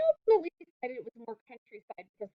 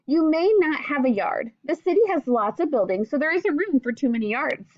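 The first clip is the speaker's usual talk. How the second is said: clear, gentle read-aloud to a class; reading to children; 3 dB louder than usual. Acted. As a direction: read the book aloud to young pupils, patiently. Teacher reads picture book to class.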